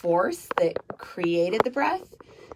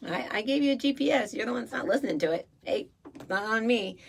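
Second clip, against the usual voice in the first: lightly voiced shrugging God; 4 semitones higher, 5 dB quieter than usual. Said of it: "God's like".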